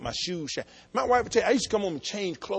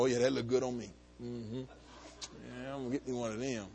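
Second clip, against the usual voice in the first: admiring myself; 7 semitones lower, 13 dB quieter than usual. Retold or imitated. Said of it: "I stand there and go".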